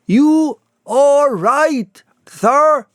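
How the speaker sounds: high, loud, slow call through the door; sharp call. A narrator's reading. Hall calls through the parlour door, sharply. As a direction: rap out the question sharply. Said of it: "asked Mister Hall sharply again".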